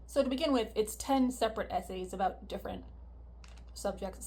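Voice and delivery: talking around a cough drop; cough drop in mouth. Real, not acted. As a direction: lozenge rattling in mouth. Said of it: "I have a cough drop in my mouth".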